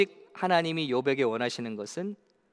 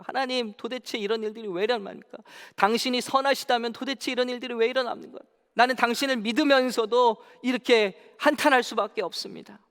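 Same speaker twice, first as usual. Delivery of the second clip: lamenting Job; 6 semitones higher than usual. Acted. 욥이 하나님께 항변.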